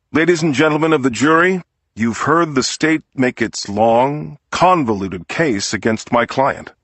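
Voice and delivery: courtroom appeal to the jury, lightly voiced; defense lawyer's plea.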